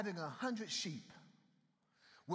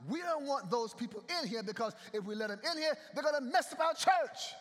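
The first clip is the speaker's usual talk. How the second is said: mocking narrow church folk; 5 semitones higher, 4 dB louder than usual. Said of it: "narrow thinking sometimes about".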